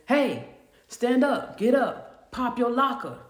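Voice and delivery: acted-out command with drawn-out opening; commanding officer. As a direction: imitate an officer ordering an inmate up. Officer barks orders at inmate.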